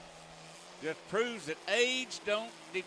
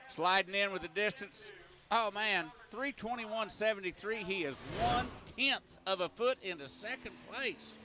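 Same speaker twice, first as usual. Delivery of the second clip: tractor pull announcer; 2 semitones higher than usual. Real, not acted. Live tractor pull call.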